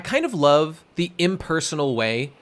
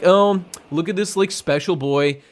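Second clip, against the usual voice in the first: mock-impressed cynic, raised at the start; cynical; 3 semitones higher than usual. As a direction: sneer it lightly as a pretend cynic. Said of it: "I could be cynical and be like".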